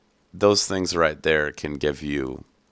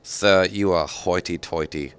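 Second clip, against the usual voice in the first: mock-creepy, slightly raised voice; a playfully creepy put-on voice; 3 semitones higher, 4 dB louder than usual. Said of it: "say it in a creepy voice, too".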